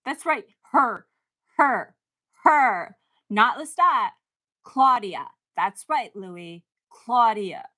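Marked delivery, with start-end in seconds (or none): 0.7-5.3 louder, teary insistence; emotional and emphatic; tearing up. Real, not acted. Tearing up at the show, teary insistence. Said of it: "I'm tearing up right now".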